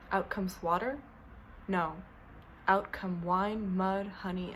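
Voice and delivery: measured poetry recital with long pauses; poem reading. Acted. Poet reading a self-portrait to listeners, measured recital. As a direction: read it as verse, pausing after each image. Reads own poem aloud.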